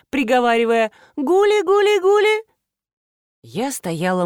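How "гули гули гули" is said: very high, loud cooing call; squeaky old man's pigeon call. Acted. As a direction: coax the birds in. Old man calling birds.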